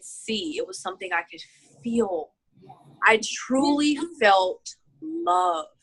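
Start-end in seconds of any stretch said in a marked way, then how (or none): 3.1-5.7 slow, emotional, choked up. Real, not acted. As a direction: hold back the tears, choked up. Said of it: "I'm choking up right now".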